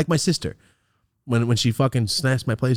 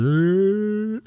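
long rising growl, higher pitched; slow-motion effort noise; 9 semitones higher than usual. Retold or imitated. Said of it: "All in slow motion".

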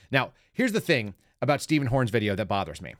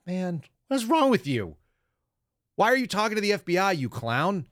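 exasperated; 9 semitones higher than usual. Retold or imitated. Officer exasperated at a suspect who unplugged his router. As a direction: groan it out at the foolish suspect. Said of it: "It's like".

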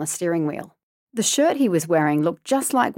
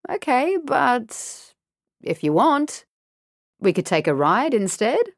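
lightly sly stranger; 6 semitones higher than usual. A narrator's reading.

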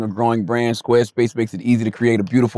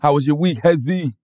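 put-on African accent. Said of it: "doing that African accent at the end".

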